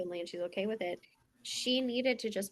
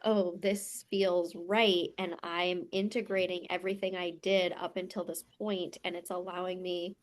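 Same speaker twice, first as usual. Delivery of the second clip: crying. Retold or imitated. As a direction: speak through rising tears. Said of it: "You're like".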